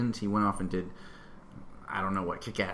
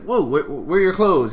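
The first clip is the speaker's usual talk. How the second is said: mock startled yelp, higher and louder; 5 semitones higher, 7 dB louder than usual. Xavier to a naked Mystique he sees as a sister, mock startled. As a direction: imitate someone caught off guard, voice jumping up.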